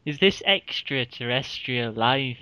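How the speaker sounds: lightly imitated science presenter; a hint of wondering TV narration; Brian Cox. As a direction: marvel gently, as if presenting the cosmos. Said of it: "I could do his voice all day".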